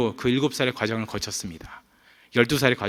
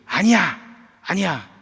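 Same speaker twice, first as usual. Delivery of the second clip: put-on high, loud childish no; son yelling; 6 semitones higher, 5 dB louder, slower than usual. Little son yelling at his sister in protest, loud and high. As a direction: shout it back at big sister, outraged. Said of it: "누나한테 소리 지릅니다".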